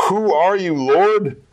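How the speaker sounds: high, stunned cry of surprise; flabbergasted. Retold or imitated. Saul, stunned on the road, asks Jesus: high flabbergasted cry. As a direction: gasp it out, utterly stunned.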